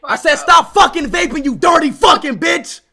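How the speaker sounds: forceful, irritated shouted repeat; emphatic angry repeat. Real, not acted. Streamer repeats an insult for someone who misheard, emphatic and angry. What'd you say?.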